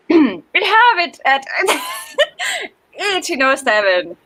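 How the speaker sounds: pirate voice. Acted. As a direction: ham up a pirate captain. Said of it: "let's see if I can do this in my pirate voice".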